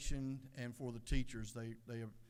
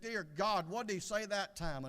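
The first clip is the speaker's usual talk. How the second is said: raised, exasperated plea; frustrated; 5 semitones higher, 4 dB louder than usual. Acted. Wife looks at her husband for a repeat, frustrated. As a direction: push it higher and louder, fed up. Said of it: "looked at her husband frustrated".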